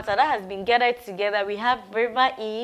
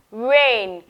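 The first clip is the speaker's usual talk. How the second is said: "Rain" called out loud; call-out model; 6 dB louder than usual. Shown as a demonstration. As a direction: call the word for the class to echo. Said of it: "Say it, let me hear".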